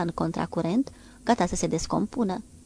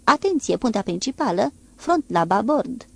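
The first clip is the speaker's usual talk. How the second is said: bellowing; 4 semitones higher, 5 dB louder than usual. Acted. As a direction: bellow it down the deck at full lung. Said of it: "urla și el cât îl țineau plămânii". (artileristul urlă comanda, din toți plămânii)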